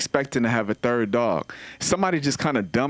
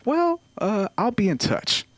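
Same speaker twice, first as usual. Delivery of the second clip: high, awkward brush-off; evasive trainer; 9 semitones higher than usual. Retold or imitated. Comic imitating the dog trainer quitting, awkward. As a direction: back away politely from a hopeless client. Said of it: "She's like".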